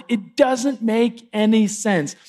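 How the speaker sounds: slow, bewildered acted protest; dismayed frog. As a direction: draw it out in mild dismay. Stung frog protests to the scorpion.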